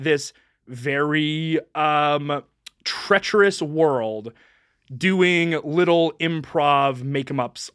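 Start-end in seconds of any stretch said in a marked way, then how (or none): none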